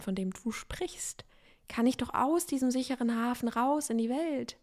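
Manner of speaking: the soul calmly smiles at the mind's panic; amused gentle reply. Retold or imitated. Her soul answers the panicking mind gently, with a smile. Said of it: "die schmunzelt und sagt".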